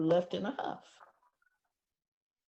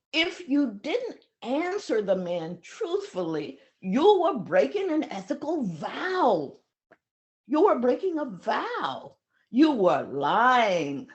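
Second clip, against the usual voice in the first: accusing; 3 semitones higher, 3 dB louder than usual. Retold or imitated. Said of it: "the Western student was saying".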